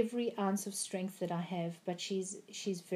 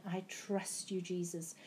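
quiet prayer; 7 dB quieter than usual. Retold or imitated. Retold prayer in the dream.

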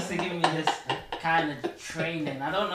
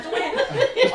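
shocked disbelief; 11 dB louder than usual. Retold or imitated. Retelling shock at doctor's news.

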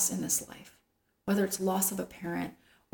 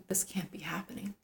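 stunned whisper; whispered disbelief; 8 dB quieter than usual. Retold or imitated. Grieving person voicing denial, in a whisper. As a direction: whisper it as if it cannot be real. Quoting someone's denial in grief.

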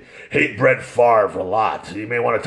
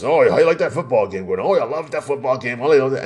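imitating manly football fans; lightly put-on dude voice. Girls chatting about a football game, mock manly voices. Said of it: "then I heard these manly voices".

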